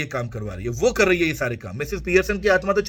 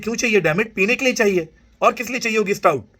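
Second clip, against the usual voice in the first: irritated mother; 6 semitones higher than usual. Acted. Mother snaps at her son.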